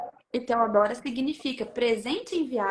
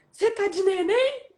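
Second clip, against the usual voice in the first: surprised question; 7 semitones higher, 5 dB louder than usual. Retold or imitated. Husband sees test.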